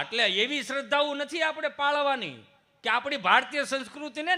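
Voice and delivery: high, loud sermon voice; fervent preaching. Acted. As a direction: preach the message to the crowd. Preaching at full force.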